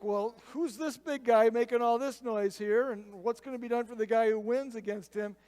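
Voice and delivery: mock bold questioning; cocky newcomer. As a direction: play a brash kid butting in. David arrives, asking loudly about Goliath.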